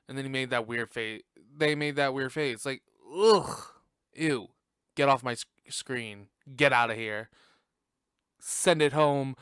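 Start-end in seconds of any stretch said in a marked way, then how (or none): 3.1-9.4 hammed-up disgust at the screen; disgusted mock rant. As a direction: pull a grossed-out face and shoo them off. Acted disgusted quote of judges.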